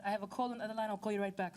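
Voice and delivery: imitated Nigerian-accented caller; mock Nigerian accent on the phone. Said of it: "this is me in my best Nigerian accent".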